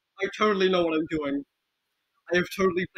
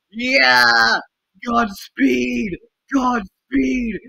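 loud, higher-pitched charging shout; battle cry; 4 semitones higher, 6 dB louder, much slower than usual. Real, not acted. Player charging through a shooter, shouting a battle cry. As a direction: cheer yourself into the fight.

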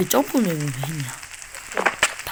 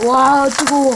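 playful hot yelp; 5 semitones higher, 5 dB louder, much slower than usual. Pretend. Character standing in lava.

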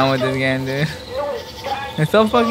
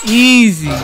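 cocky shout; 8 semitones higher, 8 dB louder than usual. Real, not acted. Outrunning the monster.

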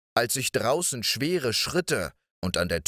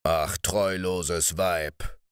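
indignant cry; 4 semitones lower, much slower than usual. Acted. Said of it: "schrie er sichtlich entrüstet".

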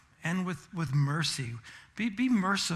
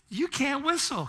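teasing laugh; 10 semitones higher than usual. Retold or imitated. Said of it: "I started to laugh".

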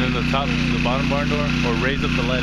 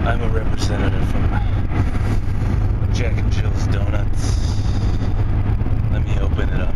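mock ad spokesman; 4 dB louder than usual. Mock donut company spokesman.

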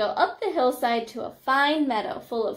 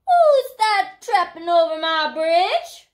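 loud, raised troll roar; 6 semitones higher, 6 dB louder than usual. A narrator's reading. Troll challenging a goat on the bridge, roaring. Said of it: "roared the troll".

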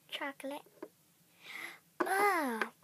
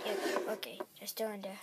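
low, softer, unvoiced whisper; 10 semitones lower, 6 dB quieter, faster than usual. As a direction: hush it while spying. Spying on the house.

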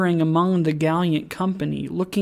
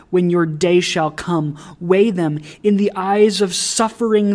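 forceful oratory with louder bursts; impassioned narrator's rebuke; 4 dB louder than usual. A narrator's reading. Narrator tells alderman to balance the scales, impassioned rebuke. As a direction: challenge him directly, punching the key phrases.

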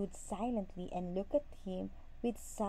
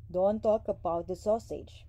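fed up; 7 dB louder than usual. A narrator's reading. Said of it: "did not want to listen to his wife anymore".

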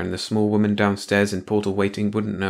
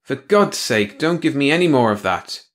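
weary growl; 6 semitones higher, 4 dB louder than usual. Acted. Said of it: "he growled wearily".

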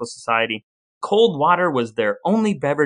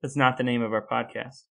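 laughing protest; 6 dB quieter than usual. Real, not acted. Laughing at sibling's name mix-up.

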